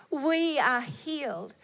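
whispered awe; hushed. Real, not acted. Preacher whispering the promise to the congregation, hushed. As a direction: breathe it out like a secret blessing.

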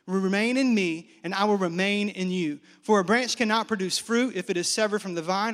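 a steady pulpit reading voice; scripture reading. Acted. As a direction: read the verses with weight. Reads scripture aloud.

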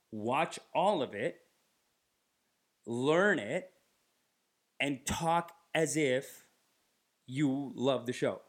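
slow, deliberate coaching; lightly voiced agent, spelling it out slowly; instructing agent. Acting agent coaching a client.

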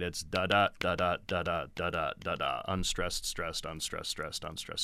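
da da da da tapped out as unstressed then stressed beats; iambic rhythm demo. Shown as a demonstration. Teacher showing iambic rhythm, steady da-DA pattern. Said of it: "it's a rhythm to it".

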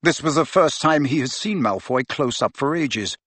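plain reading voice

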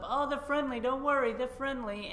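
imitating a careless dog owner; mock dog owner lady. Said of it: "some lady comes up".

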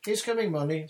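high, loud reply across the platform; calling back. A narrator's reading. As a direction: shout back to your wife. Husband calls back to his wife.

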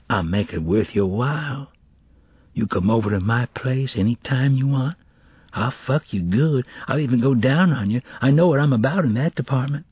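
lightly voiced cocky street boy; slightly lifted boy's voice, making a lewd offer; propositioning schoolboy. Boy propositioning classmate after smiling, cocky come-on.

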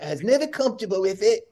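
high, strained complaining rant; imitated angry golfer. The speaker imitating Wallace blaming his caddy, high angry whine. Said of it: "and he goes".

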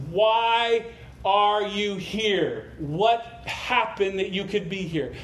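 hammed-up frustrated angel demanding answers. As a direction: play the exasperated supervisor angel, dragging out "are". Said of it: "the supervisor angel is just frustrated".

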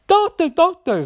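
high-pitched mock cry for help; imitated shout. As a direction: call out frantically as the nurse, hammed up. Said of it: "So then she shouts".

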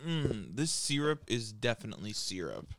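lightly voiced, measured syrup inspector; quality control guy. Podcaster imagines a syrup quality checker, lightly acted official verdict. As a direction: deliver a mock tasting verdict in your own accent. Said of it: "some guy sitting there goes".

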